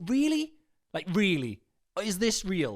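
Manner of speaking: lightly voiced American teen disbelief; a hint of an American accent, questioning; mock American. Man doing an American impression for his wife, mildly voiced. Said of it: "Do the impression".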